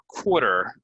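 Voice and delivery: "quarter" said KWOR-ter; pronunciation demo. Shown as a demonstration. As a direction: or vowel in "quarter". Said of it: "most common way to say".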